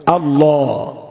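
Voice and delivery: আল্লাহ with thick L and rounded "aw"; heavy L. Shown as a demonstration. Preacher teaching the word, আল্লাহ with a heavy L. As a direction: say আল্লাহ full and rounded, not thin. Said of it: "লটা মোটা হবে".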